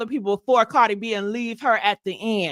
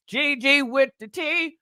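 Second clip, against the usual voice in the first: shouted out with hype. Shown as a demonstration.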